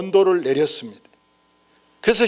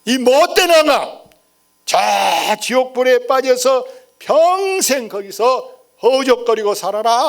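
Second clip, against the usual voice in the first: prisoner yelling curses; 3 semitones higher than usual. Retold or imitated. Preacher acting the prisoner cursing the king, raised mock yell. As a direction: hurl the curse upward like a condemned man. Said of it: "고래고래 소리를 지르는 거예요".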